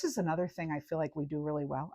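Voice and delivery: soft, hushed confiding whisper; leaning into the camera, whispering a secret. Real, not acted. To her viewers, whispering like sharing a secret. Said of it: "I don't know why I'm whispering".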